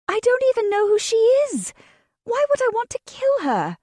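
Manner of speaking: high, loud, laughing protest; laughing disbelief. A narrator's reading. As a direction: laugh at how stupid it is. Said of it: "I started laughing".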